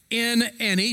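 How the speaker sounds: any lifted high and leaned on; stress on any. Shown as a demonstration. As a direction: press the word any. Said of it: "circle the word any".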